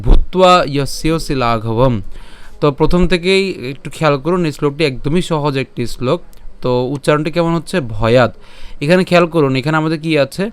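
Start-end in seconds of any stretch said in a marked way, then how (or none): 0.0-1.9 slow, measured verse recitation; Sanskrit shloka recitation. Shown as a demonstration. Teacher recites the shloka for learners, slow measured chant. 8.0-8.3 ভয়াদ ending on a bare d, no vowel; clipped final consonant. Shown as a demonstration. Teacher models the halant word, ভয়াদ with vowelless d. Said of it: "দয়ের উচ্চারণটি সম্পূর্ণ উচ্চারিত হয়নি".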